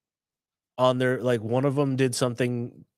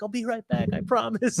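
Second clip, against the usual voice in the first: mock girl voice; 10 semitones higher than usual. Voicing the girl.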